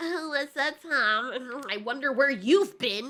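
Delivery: angry, annoyed, very slow, one word dragged out. Retelling how a character greets Tom: imitating someone mad. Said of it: "she's all mad".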